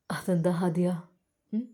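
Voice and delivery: soft coaxing whisper; gentle whisper. Acted. Doctor gently asks the unwilling bride in a whisper. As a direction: coax her quietly, almost unvoiced.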